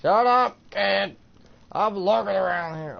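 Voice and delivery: loud, high-pitched yell; exasperated shout. Real, not acted. Player telling a game kid to shut up, exasperated shout.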